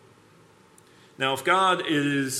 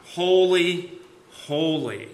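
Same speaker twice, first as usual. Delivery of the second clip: raised, ringing proclamation, easing on the last; crying out; 4 semitones higher, 4 dB louder, slower than usual. Acted. Seraphs proclaiming God's supremacy, crying out. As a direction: cry it out high and loud, then let it settle. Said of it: "They cry out".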